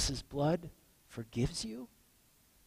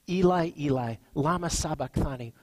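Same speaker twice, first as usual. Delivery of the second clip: loud anguished cry; 7 dB louder than usual. Acted. Jesus on the cross crying to God, loud anguished cry. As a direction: cry out the Aramaic, loud and raw. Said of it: "Jesus cried out in a loud voice".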